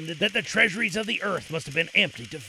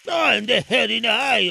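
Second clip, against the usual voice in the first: put-on higher, slow courtly young hero; Aladdin voice; 4 semitones higher, 7 dB louder than usual. A narrator's reading. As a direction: address the king reverently.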